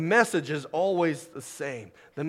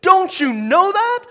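imitated high, yelled challenge; loud, high-pitched preacher's yell; a singer proclaiming; 12 dB louder than usual. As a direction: demand it loudly of the whole congregation. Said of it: "He would say it like that".

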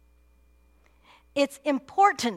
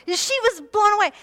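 excited retelling; 8 semitones higher, 7 dB louder than usual. Retold or imitated. Retelling the girl's amazement.

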